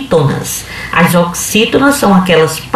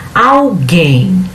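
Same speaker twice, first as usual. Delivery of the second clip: "Alguém" sounded out, weight on the final "guém"; teacher's demonstration of "Alguém" with a stressed last syllable. Shown as a demonstration. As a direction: say "Alguém" in two beats, stretching "guém". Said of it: "A primeira sílaba de trás pra frente é o em".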